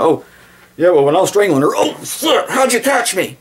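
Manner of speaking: high, sheepish mock confession; mock caught killer. Imitating a careless murderer, high and sheepish. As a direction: play the dumb killer who slips up.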